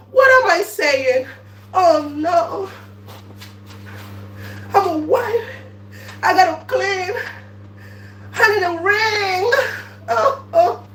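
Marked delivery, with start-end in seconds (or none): none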